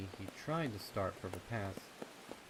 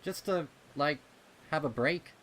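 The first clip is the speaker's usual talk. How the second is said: pleading colt; 7 semitones higher, 11 dB louder than usual. Acted. Rumble pleading.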